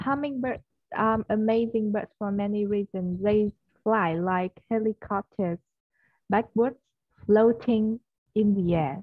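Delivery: slow, careful British English reading; a model read in a British accent; British accent attempt. Shown as a demonstration. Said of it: "chị sẽ cố đọc Anh Anh nhé".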